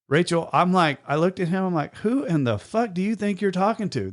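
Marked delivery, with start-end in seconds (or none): 2.0-4.1 inner angry thought. Retold or imitated. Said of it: "my thought process in my head".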